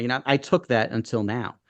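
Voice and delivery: slipping into a Brooklyn accent. Real, not acted. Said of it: "my Brooklyn accent just came out".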